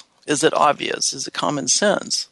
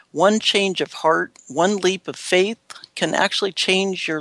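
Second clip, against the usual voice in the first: measured, clearly phrased read-aloud; scripted inspirational read. Acted. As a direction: read a prepared motivational piece, phrase by phrase. Reads out a prepared piece.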